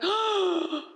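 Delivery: mock stunned, first word pitched high; retold shocked realization. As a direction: imitate a gasp of dawning realization, halting. Gasping at search result in retelling.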